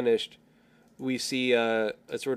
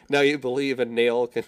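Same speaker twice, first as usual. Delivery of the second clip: laughing; 6 dB louder than usual. Real, not acted. Laughing through own tagline pitch.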